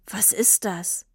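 a father taken aback; puzzled, quiet. A narrator's reading. Papa asks Tini about the bike, quiet and slow. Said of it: "Papa runzelte die Stirn und fragte".

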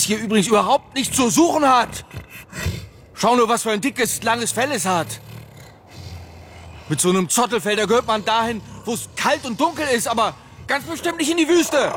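loud, exasperated grumbling; indignant rant. Acted. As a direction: complain forcefully about the intruder. Father rants about the animal.

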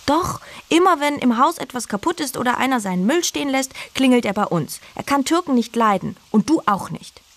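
put-on high, indignant boy's voice; a kid defending his family; boy hits back at the girl, indignant; boy arguing back. A narrator's reading. Boy argues back in quarrel.

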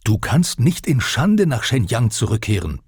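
lauter, höherer Vorwurf des Vaters; brüll den Sohn an, vorgelesen; gebrüllt. Acted. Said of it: "brüllte er". (Vater brüllt den Sohn nach der Prüfung an, laut)

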